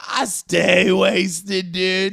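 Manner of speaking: high, loud, very slow drawl; mock stoner. A drunk brags to the host, high and slow. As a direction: stretch it out like a happy drunk. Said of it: "He's like".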